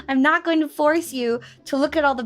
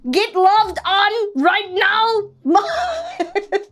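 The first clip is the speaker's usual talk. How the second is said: high, loud cutesy moth voice; 5 semitones higher, 4 dB louder, slower than usual. Pretend. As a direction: play a cute sniffing creature. Playful cute bit about moths.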